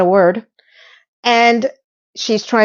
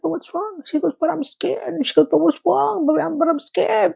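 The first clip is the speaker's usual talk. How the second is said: mock scared; 8 semitones higher, 5 dB quieter than usual. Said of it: "she's like".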